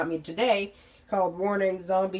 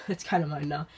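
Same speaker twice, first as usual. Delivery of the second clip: laughing. Real, not acted. Laughs repeating claim on lamp.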